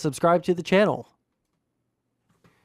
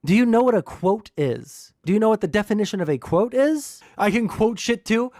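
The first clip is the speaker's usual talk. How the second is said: raised, exasperated repeat of the question; yelling at chat; 5 semitones higher than usual. Real, not acted. Streamer repeats the question to chat, exasperated. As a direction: press the point again, still pitched up. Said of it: "yelling at chat the entire time".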